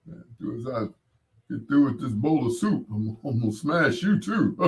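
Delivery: lightly voiced bully threatening over soup; casual menace, half-hearted; Big Jake Nasty. DJ's bully character threatening while eating soup, lightly voiced. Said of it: "Big Jake Nasty".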